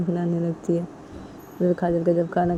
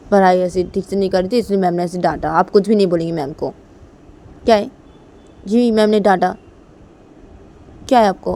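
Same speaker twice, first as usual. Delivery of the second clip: loud, firm protest to mum; acted daughter putting her foot down, loudly; insistent daughter; 7 dB louder than usual. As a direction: raise your voice in protest. Daughter warns mother off teacher.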